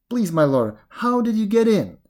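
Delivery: high, loud, puzzled plea; pleading jackal. Acted. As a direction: ask in anxious bafflement. Jackal begs tiger to explain.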